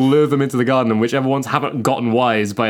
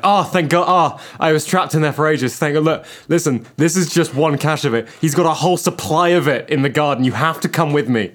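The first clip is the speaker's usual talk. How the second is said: higher, pleading robot spider; fake ally spider; 4 semitones higher than usual. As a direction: play the fake friendly ally. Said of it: "It will just kind of be like".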